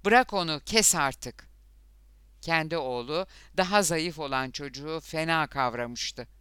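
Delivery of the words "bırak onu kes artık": loud, high start, easing slightly; roared command. A narrator's reading. Father orders his son to stop fighting, roaring. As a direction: shout an order to break it up. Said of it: "diye kükredi Lothar".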